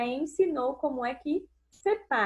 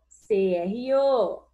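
slow spelling; 4 dB louder, slower than usual. Shown as a demonstration.

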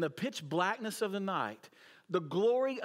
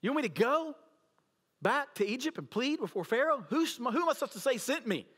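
Moses protesting; 7 semitones higher, faster than usual. Retold or imitated. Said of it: "Moses was debating with God".

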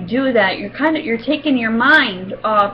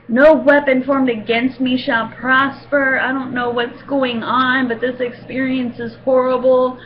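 silent prayer; 3 semitones higher than usual. Retold or imitated. Praying to God during the tooth pull, mildly pleading. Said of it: "I'm like".

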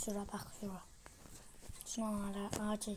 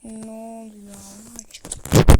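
shocked shout; 17 dB louder than usual. Real, not acted. Shocked outburst at game.

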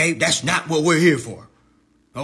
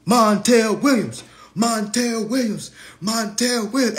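calling out; 3 semitones higher than usual. Real, not acted. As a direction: call out like summoning him. Calling out to tag him.

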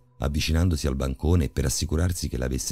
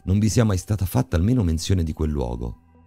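more decisive; 4 semitones higher than usual. Acted. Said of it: "con un tono più deciso".

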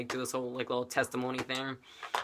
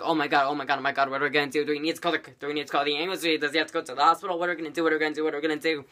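mildly raised, frantic repeated questions; hysterical teacher; much faster than usual. Retold or imitated. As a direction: imitate a teacher losing it, half-hearted scream. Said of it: "kinda, like, screaming hysterically".

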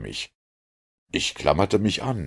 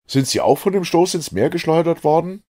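high, loud, eager questioning; astonished question; 11 semitones higher, 6 dB louder than usual. A narrator's reading. Narrator asks Ned about the collision, astonished. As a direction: ask in raised-voice amazement.

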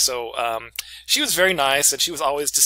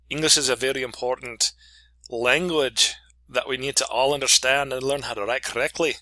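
put-on Scottish accent for a class introduction. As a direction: greet the class as a Scottish professor. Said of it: "with the Scottish accent".

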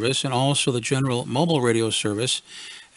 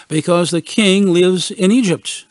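put-on arguing kid; 5 semitones higher, 5 dB louder, slower than usual. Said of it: "they argued".

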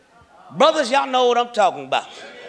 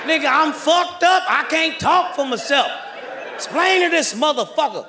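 shouting to fans; 3 semitones higher than usual. Retold or imitated. Shouting to fans while cuffed.

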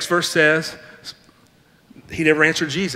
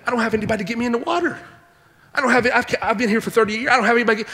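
fast, higher, whining excuses; mock the sick man's fast, pleading excuses; whiny complaint; 4 semitones higher, much faster than usual. Pastor imitating the sick man pleading his excuses, fast whine. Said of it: "he'd have said".

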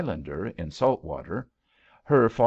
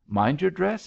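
high, quick warning; cautioning; 9 semitones higher than usual. A narrator's reading. King warns Billy holding the messy baby, cautioning. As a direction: caution her sharply, pitched up. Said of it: "he cautioned".

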